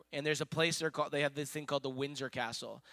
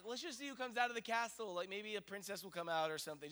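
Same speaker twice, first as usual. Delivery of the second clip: soft, slightly raised coaxing voice; 3 semitones higher, 6 dB quieter than usual. Retold or imitated. Parent trying to get hungry kids engaged, gentle coaxing. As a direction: gently talk restless kids into waiting. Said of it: "Just trying to get them engaged".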